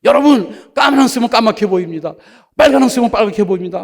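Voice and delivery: loud, high country elder preaching; hammed-up elder's sermon, loud and high. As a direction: bellow it like a simple old elder at the pulpit. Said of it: "이 안경을 들고 막".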